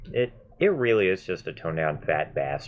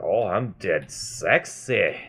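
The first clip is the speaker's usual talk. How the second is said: slow, drawn-out Scottish movie villain quote; Fat Bastard; slower than usual. Retold or imitated. Player quotes a film joke shared with coworker, slow Scottish accent. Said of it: "it was Fat Bastard we were referencing".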